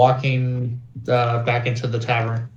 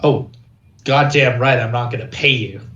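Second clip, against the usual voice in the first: acted indignation, louder at the start; indignant retort; 4 dB louder than usual. Morlock answering a companion who quits over pay, indignant. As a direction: fire back, mildly angry, punching the opening words.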